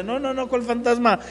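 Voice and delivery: lightly voiced Jesus, amused and reassuring; gently teasing, then comforting. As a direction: play Jesus chuckling at their fear, rising on yo soy. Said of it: "Jesús riéndose, diciéndole".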